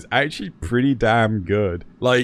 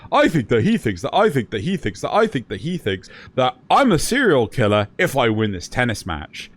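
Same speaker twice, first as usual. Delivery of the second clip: mocking Death Note; 3 semitones lower, faster than usual. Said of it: "I will always take the piss".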